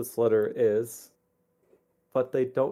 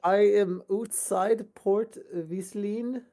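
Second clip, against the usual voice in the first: slow, slightly raised letter voice; lightly voiced letter writer; 8 semitones higher, much slower than usual. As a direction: read it like a pleading parent. Reads letter in character voice.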